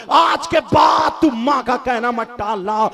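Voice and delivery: usual speaking voice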